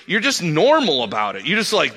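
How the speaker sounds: high, loud, animated retelling of the stranger; excited bar patron. Retold or imitated. The guy at the bar, amazed by the pastors, excited.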